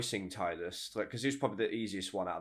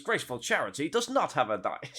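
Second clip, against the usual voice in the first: a raised, lightly put-on character voice; character voice imitation; 6 semitones higher than usual. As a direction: repeat it in his voice. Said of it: "get his voice".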